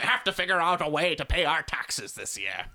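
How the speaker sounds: lightly voiced cartoon villain; a hint of a scheming supervillain. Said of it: "That's my only villain voice".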